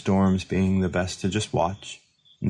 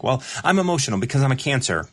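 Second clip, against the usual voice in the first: quick, mocking take on her old self; mock self-pity; 5 semitones higher, faster than usual. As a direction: tease her past self, rushed. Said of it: "I used to be like".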